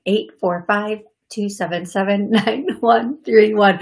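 slow the number down so callers catch it. Shown as a demonstration. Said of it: "Let me say that a little slower".

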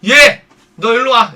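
loud, slow summons; calling over sternly. Retold or imitated. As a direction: call someone over like an annoyed boss. Madam summons a host over. (크고 느리게 불러 세우기)

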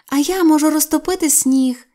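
high, loud proud boast; excited shout. Acted. Sylvia boasting to mother, high and loud. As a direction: crow it out to mother. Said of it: "закричала Сільвія".

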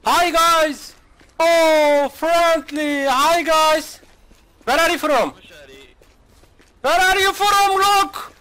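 high, loud, exaggerated cheery English; put-on friendly stranger. Streamer greeting wary players in game, hammed-up cheery voice. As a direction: overplay a goofy friendly tourist.

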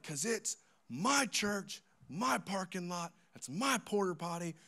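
high, indignant pastor impression; mad pastor. Pastor claiming his church to cheeky kids, mock indignation. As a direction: imitate an exasperated pastor, high-pitched. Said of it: "Just so mad".

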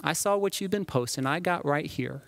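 a hammed-up scold waving the receipts; a preacher lightly playing a gotcha accuser; cancel culture Christ. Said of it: "what would a cancel culture Christ do".

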